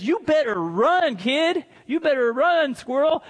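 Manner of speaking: high, lightly acted urgent warning; playful imitation of a warning mother; mom's warning. Mom warns Jacob to flee.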